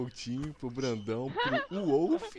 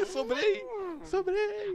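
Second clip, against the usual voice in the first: excited cry; much slower than usual. Real, not acted. Last one left in game.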